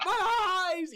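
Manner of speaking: high, loud hammed-up wail; mock agonized cry through a laugh; cries out. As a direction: overact the pain, half laughing. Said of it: "the wizard cries out".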